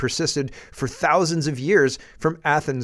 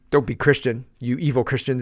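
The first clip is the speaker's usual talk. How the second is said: mock Carney paraphrase. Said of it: "he says".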